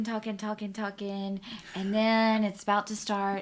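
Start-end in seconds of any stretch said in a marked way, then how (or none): 0.0-1.4 talking trailing softer and softer; fading to hush. Retold or imitated. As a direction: let the chatter die away. Crowd chatter fading out.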